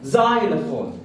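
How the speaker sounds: زايلوفون with an opening z sound; correct pronunciation of زايلوفون. Shown as a demonstration. Teacher repeating xylophone for learners, careful z-initial زايلوفون. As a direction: model زايلوفون clearly as "ZY-le-fone". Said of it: "علشان ننطقها صح هنقولها".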